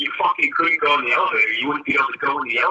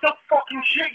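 sarcastic retort; 12 semitones higher than usual. Retold or imitated. Retorting in the retold scene.

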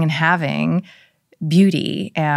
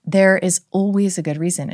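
gentle mother's reassurance; 4 semitones higher than usual. Retold or imitated. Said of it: "saying to her".

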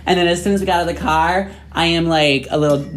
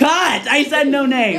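laughing shout; 9 semitones higher, slower than usual. Real, not acted. Stopping friend naming someone.

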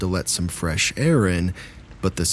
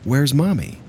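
husband's voice; 7 semitones higher than usual. Retold or imitated. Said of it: "I hear my husband's voice say".

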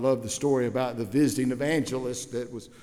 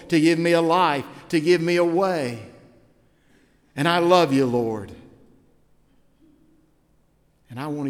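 prayer voice; 2 semitones lower than usual. Acted. Preacher voicing a repentant sinner's prayer, earnest. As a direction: pray it humbly, building to a plea.

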